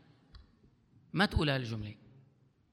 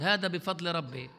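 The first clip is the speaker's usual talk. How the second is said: تقليد ساخر؛ "هذا بفضل ربي" بنبرة أخف وأبطأ تهكماً بمن يدّعي التواضع؛ قلّدها كمن يضحك على الناس؛ سخرية خفيفة من الادعاء. Retold or imitated. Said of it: "بلاش نضحك على بعض".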